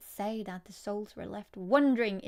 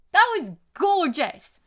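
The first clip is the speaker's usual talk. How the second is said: gushing excitement; 9 semitones higher, 15 dB louder, slower than usual. Real, not acted. Thrilled after finishing the poem.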